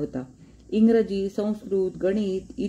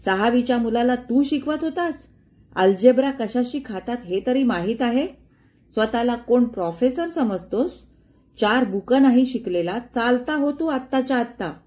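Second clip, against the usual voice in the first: raised, heated dismissal; angry shout; 4 semitones higher, 3 dB louder than usual. Acted. Father dismissing Gajanan in anger, higher and louder. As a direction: throw him out in a fury, voice pitched up. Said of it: "ते ओरडले".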